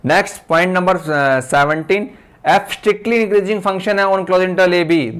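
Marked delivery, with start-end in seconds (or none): 2.5-5.1 very slow, word by word, for note-taking; slow dictating teacher; slow dictation. Shown as a demonstration. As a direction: read it out slowly while students write. Dictating theorem for notes.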